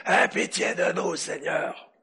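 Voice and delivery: a leper with a damaged throat begging; sick leper rasping out a plea; hoarse voice. Shown as a demonstration. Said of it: "ils avaient la voix rauque".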